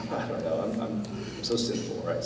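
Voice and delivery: breathy half-laughing whisper. Real, not acted. Pastor joking to the congregation about being sinful, laughing whisper.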